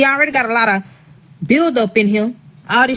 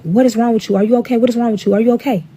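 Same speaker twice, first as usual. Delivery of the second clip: slightly raised, repeated urgent questions; worried husband; 3 semitones higher, faster than usual. Retold or imitated. Husband asking her as she runs out crying, concerned. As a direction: imitate a husband firing anxious questions.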